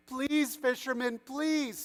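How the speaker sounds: high-pitched, tearful-style begging; pleading. A narrator's reading. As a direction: beg him urgently, acted without real sobs. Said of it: "began crying and pleading".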